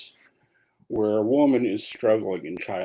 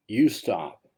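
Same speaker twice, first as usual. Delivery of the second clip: slightly louder, steady and calm; calm and compassionate; 4 dB louder than usual. Retold or imitated. Buddha facing the murderer directly, calm compassionate reply. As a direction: say it with total compassion, facing him. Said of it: "calmly, with total compassion".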